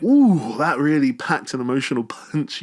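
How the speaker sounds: a hammed-up wow; mock impressed. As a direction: act bowled over, then laugh at yourself. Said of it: "you're like".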